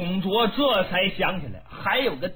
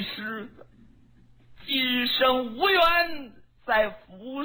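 higher, tearful woman's voice, slowing at the end; pleading young woman; 3 semitones higher than usual. Acted. Diaochan pleads innocence to Dong Zhuo, tearful and high. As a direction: beg for belief, near tears.

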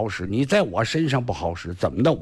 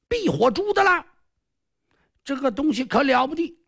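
a lightly raised, smug villain's voice; boastful sly sorcerer; 8 semitones higher than usual. Acted. Sorcerer Kong Xiu boasting to the hero, smug and a bit higher. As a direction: crow over the island like a cocky magician.

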